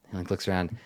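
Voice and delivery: hushed conspiratorial whisper. Acted. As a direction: whisper the bribe so no one hears. Prisoner whispering a secret offer.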